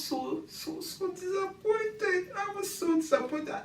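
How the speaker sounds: disappointed. Real, not acted. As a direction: sigh it out, crushed.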